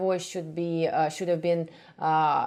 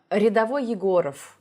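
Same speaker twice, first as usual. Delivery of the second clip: higher, sharp "rolled-R" command; more aggressive; 4 semitones higher, faster than usual. Shown as a demonstration. Teacher demonstrating the corrected line, aggressive and higher. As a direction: say it aggressively, pitched up. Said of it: "actually sounded more aggressive".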